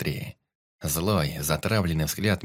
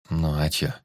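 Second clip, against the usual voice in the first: strained; 3 semitones lower than usual. A narrator's reading. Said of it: "Сдавленно выдавил".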